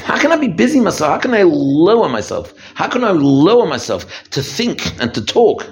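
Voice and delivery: high, rapt and wondering; lifted up, marveling at how close he feels; elated inner voice. Pretend. Person at Yom Kippur prayer, rapt and soaring. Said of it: "You start saying".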